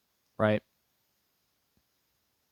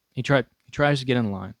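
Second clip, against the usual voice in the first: ordinary delivery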